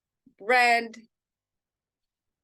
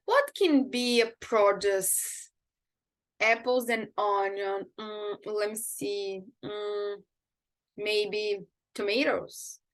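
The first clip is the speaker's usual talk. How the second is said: learner thinking aloud; 3 semitones lower, slower than usual. Shown as a demonstration. Teacher acting out a learner searching for an item, musing slowly. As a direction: ponder it slowly, feeling for an answer. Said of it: "e me fala, por exemplo".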